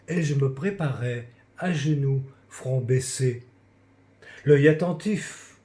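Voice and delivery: measured reading of a poem, line by line; poem recitation. Acted. Reading a childhood confession poem to confined friends, recited. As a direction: recite verse with pauses after each phrase. Reads own poem aloud.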